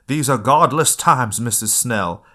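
lightly acted Mama, slow and loud; slow, emphatic movie-quote delivery; Mama's line. Host quoting Mama's line to Sue's mom, lightly acted and slow. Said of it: "where Mama says".

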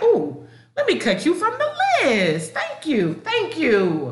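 gleeful farewell; laughing dismissal. Retold or imitated. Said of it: "have that, like".

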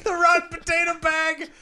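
laughing. Real, not acted. Repeats nickname while laughing.

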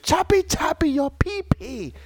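imitating wrestler. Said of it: "and he said".

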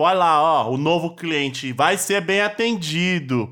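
slow, sly sarcastic tone, stretching bem atendido; sarcastic intonation. Shown as a demonstration. Podcaster acting out the woman's sly sarcastic tone. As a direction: say it like a snide hint that nobody will be served. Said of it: "Será que ela não tá fazendo uma entonação de tipo".

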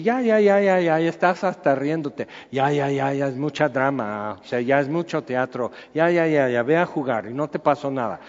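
put-on brushing off a crying child, ya ya ya; preacher plays a dismissive parent hushing a fallen kid; parent soothing child. Parent to crying child: mock soothing, dismissive. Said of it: "así como tú y yo hemos hecho con niños".

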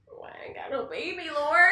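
half-laughing wailing plea to God; mock wail. Wife pleading with God for a baby, mock wail. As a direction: cry out to heaven, hammed-up.

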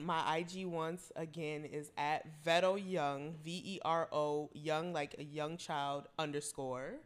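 slow, announcer-style handle read; radio host voice. Acted. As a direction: spell it out like a DJ. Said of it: "why she sound like a radio host".

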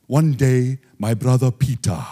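imitating a preacher's storytelling; Reinhard Bonnke. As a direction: put on the evangelist's delivery. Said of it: "Reinhard said it like this".

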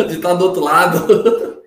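laughing while he speaks; words broken by happy laughter. Real, not acted. Laughing at his surprise debut.

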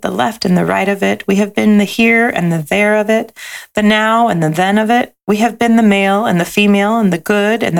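gentle storybook read-aloud; lilting picture-book narration; reading to children. A narrator's reading.

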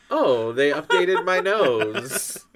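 mock imitation. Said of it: "Sam doing things like".

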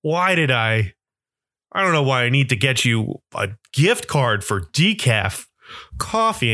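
groaning, put-upon uncle; grudging, eye-rolling complaint; exasperated eye-roll. Retold or imitated. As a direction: imitate a mildly disgusted sigh of reluctance. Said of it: "just kinda rolls his eyes like".

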